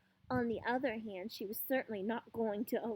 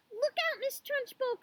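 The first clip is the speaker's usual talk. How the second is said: high-pitched urgent warning, louder; crying out; 4 dB louder than usual. A narrator's reading. Lavender warns Miss Trunchbull about the creature, crying out. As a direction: call out a warning like an excited child. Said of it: "cried Lavender".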